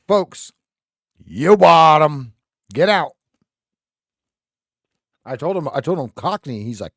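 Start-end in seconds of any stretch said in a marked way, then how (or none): 0.1-3.1 loud, slow drawn-out call to the buyers; auctioneer's closing shout. Real, not acted. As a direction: bellow the sale closed to the crowd.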